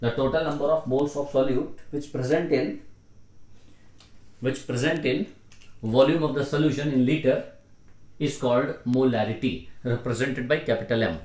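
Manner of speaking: slow, word-by-word dictation for note-taking; measured teacher dictation. Real, not acted. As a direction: dictate it slowly, pausing between phrases and repeating. Teacher dictating a definition to write.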